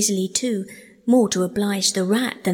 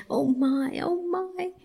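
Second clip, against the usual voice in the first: miserable mole; 10 semitones higher, slower than usual. A narrator's reading. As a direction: moan miserably to yourself. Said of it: "said the mole miserably".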